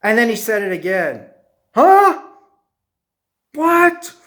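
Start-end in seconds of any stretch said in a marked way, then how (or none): 1.7-4.1 high, loud startled questions; acted bewilderment. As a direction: react baffled, pitch jumping way up. Acted startled reaction in story.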